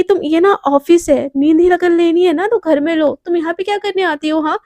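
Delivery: loud scolding rant; angry scolding. Acted. Boss scolding the sleepy assistant, loud. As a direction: tear into her.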